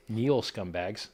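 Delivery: slow, drawn-out royal command; ancient rasping undead king. Acted. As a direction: order them to kneel like a tyrant king. Commanding critics to kneel before him.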